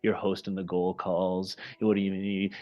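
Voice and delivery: mock scolding inner voice, quick at first; lightly voiced nagging self-doubt; a hint of a berating inner critic. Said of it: "what do you think is gonna come up".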